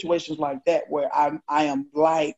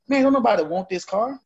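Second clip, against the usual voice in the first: higher, exasperated scoff; retold protest to the sheriff, higher and exasperated; indignant retort; 6 semitones higher than usual. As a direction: brush off the accusation with disbelief. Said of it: "I'm like".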